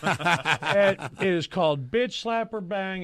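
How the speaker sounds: slow, drawn-out game-show reveal; game announcement. Real, not acted. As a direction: announce it slowly, spacing out the title. Host announces the game's name.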